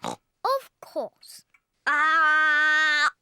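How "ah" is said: loud demonstration ah for the doctor; open-mouthed ah. Shown as a demonstration. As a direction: show how to say ah wide. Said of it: "Can you show George how to say, "Ah"?".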